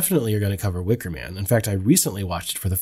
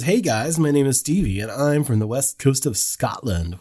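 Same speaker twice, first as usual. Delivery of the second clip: a wrong, raised put-on accent meant to be Scottish; attempted Scottish accent; 4 semitones higher than usual. Host reading a listener's email, mock Scottish accent gone wrong. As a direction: read the letter in a botched Scottish lilt. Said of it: "that's the wrong accent for that".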